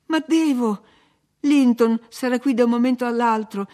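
high, loud, urgent protest; alarmed insistence. A narrator's reading. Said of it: "insistette allarmato l'intruso".

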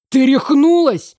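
high, loud, drawn-out incredulity; thin womanish outburst. A narrator's reading. Brother stunned by sister's question about killing her, high incredulous outburst. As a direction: cry out in a thinned, womanish voice. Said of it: "исчезла женская тонкость".

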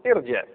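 ارجع said "irji'"; kasra on hamza. Shown as a demonstration. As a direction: open ارجع clearly on "i". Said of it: "حركه الهمزه الوسط تتبع". (ارجع بهمزة مكسورة)

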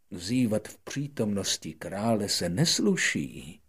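lightly voiced disapproving monarch; a hint of a stern king. King rebuking the yawning prince, lightly stern. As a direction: scold gently in a royal tone. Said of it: "řekl mu mocnář".

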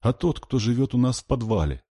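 put-on high child's voice; lightly squeaked, childish telling; squeaky little girl. A narrator's reading. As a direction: explain timidly as a scared child. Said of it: "пискнула Катя".

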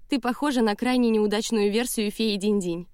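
laughing. A narrator's reading. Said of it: "сквозь смех прокомментировала она".

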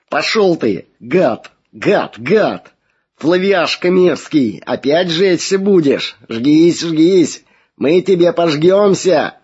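high, slow snarling demon voice; demonic snarl. Acted. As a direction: spit it out like a possessed creature. Possessed girl screams at priest.

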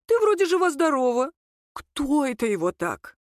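a hint of a sharp older woman; prying mother-in-law. A narrator's reading. The mother-in-law needles Nika about the beating. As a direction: needle her, suspicious.

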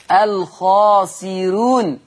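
slow "الخاسرون" with a light, thin ra. Shown as a demonstration. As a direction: recite "الخاسرون" with a softened ra. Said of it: "خلي بالكم من صوت الراء". (ترقيق الراء في "الخاسرون")

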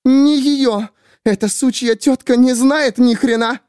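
high, loud angry woman; shrill fury. A narrator's reading. Miriam to the narrator about Grace, high loud fury. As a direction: spit it out in rage.

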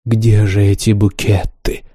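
slow, languid breathy ask. Acted. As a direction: drift it out dreamily. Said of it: "томным голосом спросила". (томным голосом)

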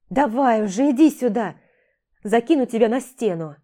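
loud call, come on. Acted. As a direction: call her over loudly. Dariana calls Jim up.

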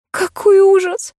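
high, slow tearful cry; sobbing dismay. A narrator's reading. Heroine despairs after the mix-up, high slow tearful cry. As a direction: wail it close to tears. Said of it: "снова всхлипнула я".

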